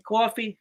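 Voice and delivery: Coffee with a rounded "cawfee" vowel; New York "coffee". Shown as a demonstration. Husband demonstrating for wife, Coffee as New York "cawfee". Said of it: "That's how New Yorkers say it".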